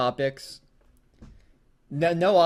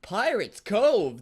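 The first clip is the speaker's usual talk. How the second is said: mildly confused; 6 semitones higher, much slower than usual. Acted.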